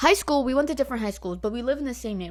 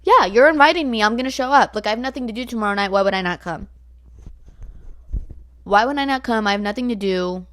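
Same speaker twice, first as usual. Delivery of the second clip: mock enthusiastic acceptance; eager agreement; 7 dB louder than usual. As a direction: jump at the invite, a little over-eager. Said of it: "so I was like".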